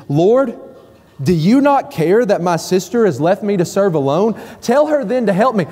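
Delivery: demanding and accusatory, pitch rising toward the end; aggressive. Acted. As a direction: throw it in his face as a complaint. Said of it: "Notice the tone of her voice. It's very aggressive".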